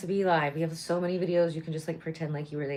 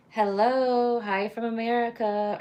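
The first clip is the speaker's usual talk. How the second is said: excited greeting; 8 semitones higher, 7 dB louder, slower than usual. Real, not acted. Greeting live chat viewers.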